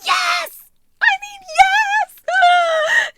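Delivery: very high, loud, drawn-out squeal; thrilled yes. Real, not acted. Vlogger squealing over new earrings, thrilled. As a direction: stretch the yes into a squeal of joy.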